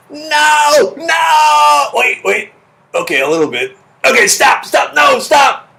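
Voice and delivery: high, loud pleading of a panicking heart; screaming heart. Acted. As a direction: beg it to stop in a high, strangled mock scream. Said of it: "that's my imitation of your heart having bacon".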